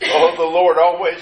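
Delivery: ordinary delivery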